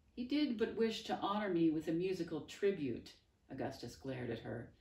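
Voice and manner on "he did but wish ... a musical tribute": mocking. Augustus mocks Bonaparte's words.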